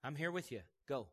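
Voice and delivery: quiet parental encouragement; acted reassuring parent; gentle coaxing. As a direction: softly nudge a child onward. Voices parent coaxing a child.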